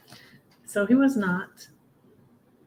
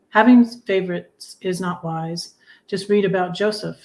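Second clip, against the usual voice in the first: louder, deliberate recital; poem recital; 4 dB louder than usual. Real, not acted. Reading her own poem The Prodigal to the audience. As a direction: perform the poem to the listeners.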